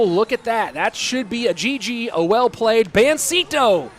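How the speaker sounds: esports caster building to a loud finish; live play-by-play. Real, not acted. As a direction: call the match, rising into the winning moment.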